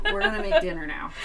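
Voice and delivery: high sing-song pet voice; talking to a pet. Retold or imitated. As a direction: coo at the cat like a toddler. Talking to cat.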